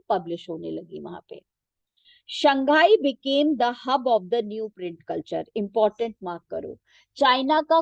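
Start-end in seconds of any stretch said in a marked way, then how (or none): 2.4-5.4 reading a textbook sentence very slowly for students to follow; teacher reading the book aloud, slow and measured. Shown as a demonstration. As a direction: dictate it slowly, word by word.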